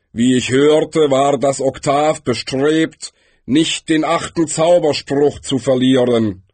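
lightly voiced figure of Death, measured; Death, matter-of-fact. A narrator's reading. Death explains events to Galder, matter-of-fact. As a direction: deliver it as Death's detached report.

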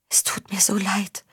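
breathy whisper, voice dropped away. A narrator's reading. Tjessa to Faun, crying, in a whisper. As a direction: whisper it through tears. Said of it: "flüsterte sie".

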